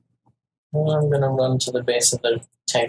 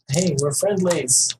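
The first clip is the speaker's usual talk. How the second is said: mock shout, higher and drawn out; pretend shout; 4 semitones higher, slower than usual. Player calling to a fighter that they are friendly, mock shout. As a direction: call out without real volume, stretching the words. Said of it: "shouting at him".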